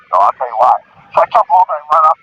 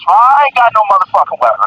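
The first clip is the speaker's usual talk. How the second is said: retold calling out; 5 semitones higher than usual. Calling out denial to police.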